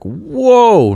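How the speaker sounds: loud, high, stretched-out "whoa"; shocked reaction. Retold or imitated. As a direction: exclaim like a startled parent. Shocked parent hearing child swear.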